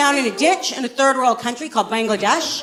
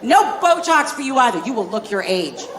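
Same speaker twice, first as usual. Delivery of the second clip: put-on scolding a whiny child; stern stepdad; 4 semitones higher than usual. Stepdad refusing whiny kids.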